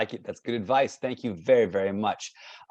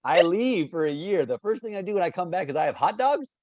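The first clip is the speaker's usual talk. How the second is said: higher-pitched comic disbelief; incredulous recap; 6 semitones higher than usual. Pretend. Host repeats kid's hot dog plan, playful incredulity. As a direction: question the silly plan, pitch raised. Repeats absurd advice back.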